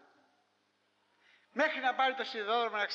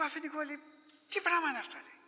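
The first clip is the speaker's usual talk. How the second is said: higher-voiced, wide-eyed villager asking; amazed villager; 7 semitones higher than usual. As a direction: marvel at the sweet like a simple peasant. (ψηλότερη φωνή, χωρικός που θαυμάζει τους λουκουμάδες)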